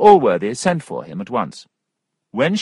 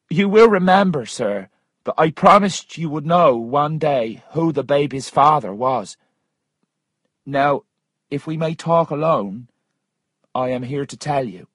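higher-pitched, emphatic character voice; a woman insisting on her account, pitched up; earnest Missus Waters; 6 semitones higher, 3 dB louder than usual. Acted. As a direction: voice her high and firm.

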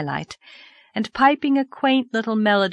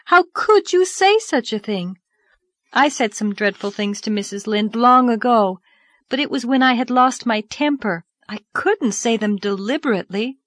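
put-on young girl voice; 5 semitones higher, 3 dB louder than usual. Narrator voices Anne.

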